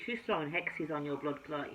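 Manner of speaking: a light Jamaican lilt slipping in; Jamaican accent. Acted. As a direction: let a touch of Jamaican patois colour it. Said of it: "that's my Jamaican".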